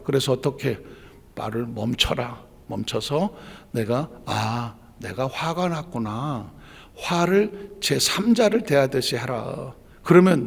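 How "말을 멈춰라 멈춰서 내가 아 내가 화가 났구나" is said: slow, soft and low, as if noticing your own anger; slow right down and name the feeling gently; demonstrating the calm inner voice that stops anger; calm self-noticing. Shown as a demonstration. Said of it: "그 화를 들여다봐라".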